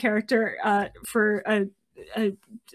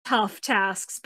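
slow, louder growl; 2 semitones higher, 5 dB louder, slower than usual. Acted. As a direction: growl the warning slowly. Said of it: "Berryheart growled".

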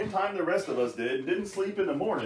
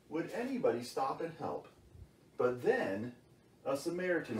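bedtime story reading. Acted. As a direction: read the parable like a bedtime story. Reads Bible story as bedtime story.

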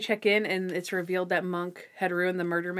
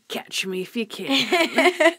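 slow, higher mock-tipsy delivery; drunk Monk; 4 semitones higher, 3 dB louder, much slower than usual. Host retells Monk downing a glass, lightly imitated drunkenness. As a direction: draw it out like a playful drunk. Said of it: "Mister Monk is drunk".

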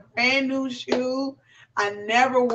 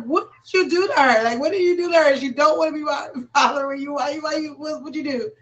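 raised-pitch retold scolding, fading off at the end; higher retold scold to daughter over the cat; mock scolding; 4 semitones higher than usual.

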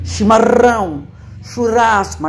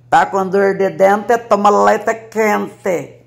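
put-on Sorocaba accent; slower than usual. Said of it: "o pessoal lá falava assim".

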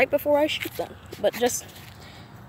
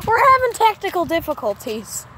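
laughing; 5 semitones higher, 4 dB louder than usual. Real, not acted. Laughing at ball stuck in net.

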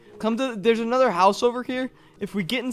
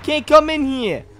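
angry warning; 2 semitones higher, 5 dB louder than usual. Pretend. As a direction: stand your ground against an intruder. Ordering intruder off the porch.

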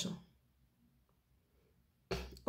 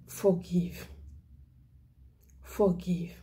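breathy whispered "Forgive." with no voice; whispered plea; 4 semitones lower, 3 dB quieter, slower than usual. Real, not acted. Evangelist pleading softly with congregation, whispering. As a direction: breathe "Forgive." to them like a secret.

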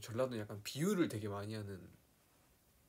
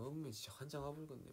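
higher-pitched Jeolla exclamation; Jeolla dialect; 5 semitones higher, 6 dB quieter than usual. Shown as a demonstration. Showing fans how Jeolla people exclaim, Jeolla accent. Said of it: "전라도는 약간, 약간 이런 거 있잖아".

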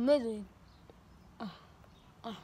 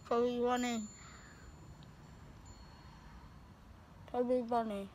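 cheeks stuffed with grapes; mumbling through a mouthful; mouth full; 9 dB quieter, faster than usual. Real, not acted.

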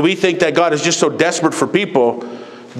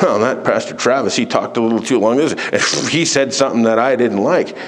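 lightly voiced complainer, pitched lower; mock complaining churchgoer; 6 semitones lower than usual. Preacher imitates members griping about the pastor, mock complaint. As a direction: imitate a grumbler in a low murmur of complaint. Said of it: "what do we get?".

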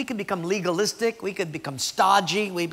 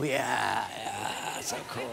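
lower, softer lazy approval; mock stoned fan; 7 semitones lower, 6 dB quieter, much slower than usual. Drunk crowd praising a terrible band, lazy and lower.

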